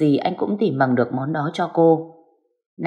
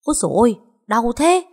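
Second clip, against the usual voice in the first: higher-pitched startled yelp of pain; voiced "ow", pitched up in sudden pain; pained cry; 7 semitones higher than usual. A narrator's reading. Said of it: "bất ngờ Khôi la lên".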